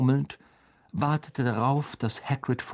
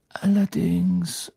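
slow, higher, carefully articulated; slow and distinct; 9 semitones higher, 5 dB louder, slower than usual. A narrator's reading. Headmaster making sure all hear, slow and distinct. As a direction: stretch the word so nobody misses it. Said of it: "sehr langsam und deutlich sprechend".

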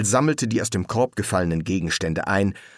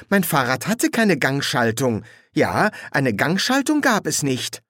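put-on higher voice for the young woman; lightly pitched-up female figure, insisting; young woman, insistent; 5 semitones higher than usual. Young witch puzzles over her altered bicycle, insistent.

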